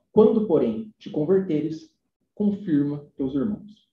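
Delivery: very slow, weighty reading of the Gospel; slow scripture reading. Acted. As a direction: dwell on each phrase like a lector. Reads Gospel quote aloud.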